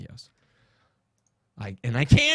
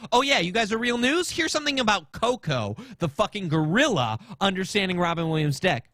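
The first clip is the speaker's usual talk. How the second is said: high, mocking retort, rising to the end; imitating a sarcastic comeback to a writer; mocking sarcasm; 6 semitones higher than usual. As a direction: sneer it back at her like a taunt. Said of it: "I went full hard on her".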